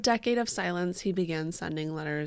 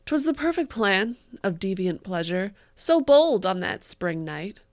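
dramatic reading; 4 dB louder than usual. Shown as a demonstration. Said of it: "regular voice".

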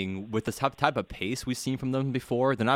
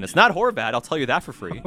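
reading a text aloud; 6 dB louder than usual. Retold or imitated. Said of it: "Somebody just texted in".

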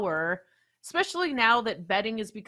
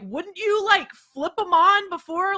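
higher-pitched, incredulous complaint; annoyed; 7 semitones higher than usual. Retold or imitated. Annoyed customer calling the handyman about lights, exasperated. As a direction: retell confronting him, exasperated. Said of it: "I was a little annoyed".

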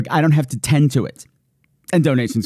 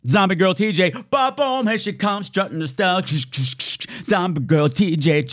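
runway announcer; 4 semitones higher than usual. Pretend.

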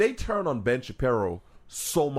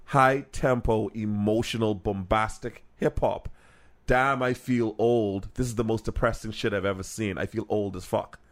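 put-on tired old-head sigh; 4 semitones lower than usual. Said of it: "his exact quote was".

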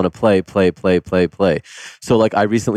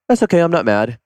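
put-on little kid voice; 8 semitones higher than usual. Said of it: "just like this little kid".

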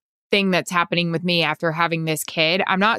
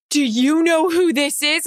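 high, slower voice of a thrilled mom; mock-amazed mom, pitched up; imitating excited mom; 7 semitones higher, slower than usual. Retells mom's excited greeting.

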